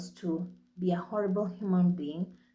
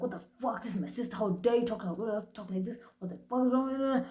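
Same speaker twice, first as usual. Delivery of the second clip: mild imitation of an angry brother, higher pitch; retold outrage; 3 semitones higher than usual. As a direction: act out a protective brother losing it, without shouting. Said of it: "My brother lost his shit".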